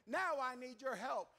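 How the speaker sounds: urgent, punched cry for help; calling out. Acted. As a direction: call out from torment, hitting each opening word. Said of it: "He is crying out".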